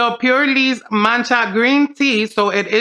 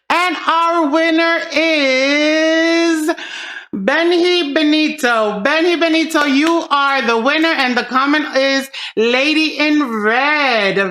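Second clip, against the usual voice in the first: hyped giveaway announcement; 4 semitones higher, slower than usual. Real, not acted. Reveals giveaway winner on camera.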